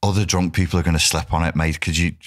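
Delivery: lightly acted, even-toned reasoning; moderated, matey doorman. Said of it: "I'm moderating my state and my attitude".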